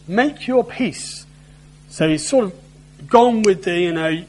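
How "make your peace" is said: tone changes. Acted. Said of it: "the tone sort of changes".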